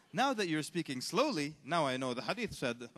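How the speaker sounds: sarcastic pretend comprehension; mock enlightenment. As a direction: act as if slowness solved everything. Sarcastically feigns understanding.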